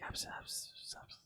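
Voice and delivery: unvoiced gibberish whispering, very soft; imitated whispers. Storyteller mimics the whispers his friend heard, whispering. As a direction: hiss out faint, unintelligible whispers in imitation. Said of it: "like, fucking whispers".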